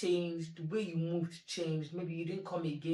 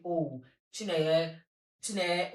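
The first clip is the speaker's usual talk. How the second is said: mocking call; 4 dB louder, slower than usual. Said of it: "nobody can come out and say".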